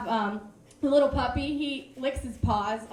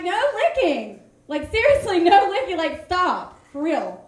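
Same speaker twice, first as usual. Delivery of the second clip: exasperated scolding; 3 semitones higher, 6 dB louder than usual. Retold or imitated. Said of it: "and I'm like".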